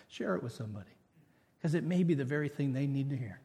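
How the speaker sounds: normal talking voice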